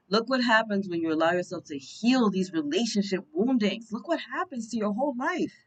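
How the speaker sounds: high, rising ecstatic proclamation; excited rapture. Real, not acted. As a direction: sweep them up in wonder. Ecstatic channeling of card messages.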